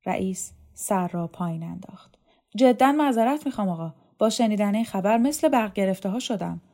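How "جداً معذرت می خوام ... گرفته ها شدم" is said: higher, louder, hurried apology; apologetic official. Acted. Dormitory chief apologises to the inspector after shocking news, apologetic. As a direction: apologise earnestly, taken aback by the news.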